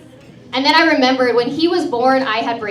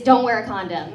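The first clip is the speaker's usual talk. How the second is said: a lightly put-on Mexican accent, lower; 4 semitones lower than usual. Shown as a demonstration. Comic jokes about her only accented phrase, light Mexican accent. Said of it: "only thing I say with an accent".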